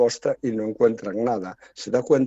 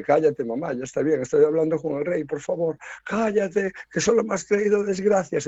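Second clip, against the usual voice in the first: exasperated son; 5 semitones higher than usual. Retold or imitated. Son scolds mother before king.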